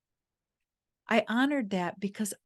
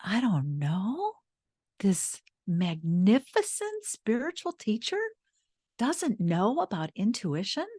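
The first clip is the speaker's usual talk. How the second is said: slow, incredulous inner voice rising on know; inner disbelief; 3 semitones higher than usual. Retold or imitated. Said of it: "my dialogue was".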